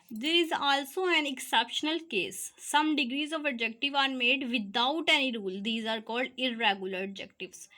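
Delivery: reads each English word slowly for notes; teacher dictating the rule to students, slow and deliberate; slow dictation read. Shown as a demonstration.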